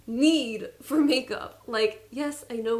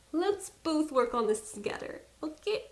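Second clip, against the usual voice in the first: Persian accent; 3 semitones higher, 4 dB quieter than usual. Real, not acted. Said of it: "my Persian accent really just flies out".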